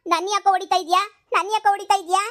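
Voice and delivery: wife protesting the blows; distressed protest. Acted. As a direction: cry out against the beating. Wife protesting being hit.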